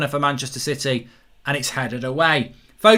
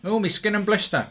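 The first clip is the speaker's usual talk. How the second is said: rough stab at Cockney rhyming slang; attempted Cockney accent; 5 semitones higher than usual. Mocking London fans with rhyming slang, fake Cockney. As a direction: put on a mock Cockney voice.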